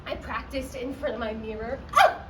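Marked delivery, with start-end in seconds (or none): 2.0-2.2 short, acted moan of pleasure; practice moan. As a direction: rehearse a brief moan for the mirror. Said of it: "moaning in various keys and various tones".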